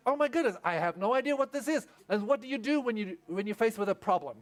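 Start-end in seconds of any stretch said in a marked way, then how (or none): 0.1-1.9 higher, amazed little exclamation; astonished toddler. Retold or imitated. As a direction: act out a baffled child's discovery. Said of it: "and he's like".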